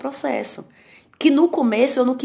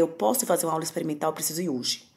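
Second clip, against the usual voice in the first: quiet urgent plea; 4 semitones lower, 6 dB quieter than usual. Retold or imitated. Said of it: "e falei".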